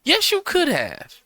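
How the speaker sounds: high, loud, stretched out; exasperated high-pitched insistence; insistent yelling. Real, not acted. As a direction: yell it back at him, won't let it go. Insists over the guest's excuse.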